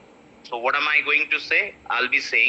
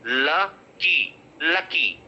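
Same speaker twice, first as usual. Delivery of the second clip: "lucky" with weight on the la; stress on first syllable; much slower than usual. Shown as a demonstration. Teacher models the stress rule, stressed first syllable in "lucky". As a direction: lean on the first syllable of "lucky", LUH-kee. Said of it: "stress the la".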